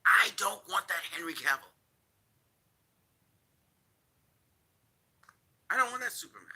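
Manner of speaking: hushed, breathy disgust; whispered. Real, not acted. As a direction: whisper it like a confession. Ranting vlogger, whispered line.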